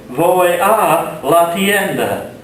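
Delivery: slow, carefully articulated Spanish for learners; slow Spanish model. Shown as a demonstration. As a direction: say it slowly so students can copy it. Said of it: "For example".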